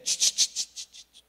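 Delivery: loud unvoiced shushing "ch ch ch". God hushing the wife before she scolds, loud shush. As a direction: hush her sharply with a hiss. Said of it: "El Señor le habla y le dice".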